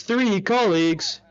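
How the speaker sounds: slow, otherworldly echoing answer; Dante's voice. Acted. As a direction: say it slowly like a strange clock-headed being. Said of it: "Dante says".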